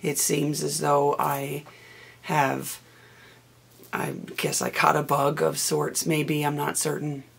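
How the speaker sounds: hoarse from a cold; rough, scratchy voice from a bug; raspy voice. Real, not acted. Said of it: "apologize for my raspy voice".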